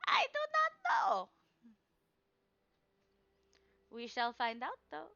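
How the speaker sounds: put-on high, loud old woman proclaiming; old crone seer. Crone reading Shadow's card, loud and high. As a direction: cry out each card like a mystic crone.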